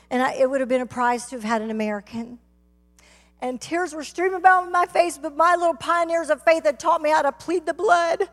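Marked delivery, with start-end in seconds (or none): 3.4-8.3 higher testimony voice, gathering force; impassioned preaching. Acted. Preacher tells congregation of tears in the van, impassioned preaching. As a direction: preach it with rising urgency.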